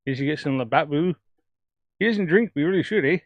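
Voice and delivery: lightly put-on Canadian hoser lilt; mock hoser Canadian with a lilting tune; Canadian hoser accent. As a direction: play a Canadian hoser at the bar. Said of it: "That's me trying to do a hoser accent".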